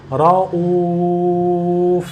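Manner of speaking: رؤوف ending on a pure consonant f; slow رؤوف with no nunation; pause form. Shown as a demonstration. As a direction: close رؤوف on f. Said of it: "make it completely consonant".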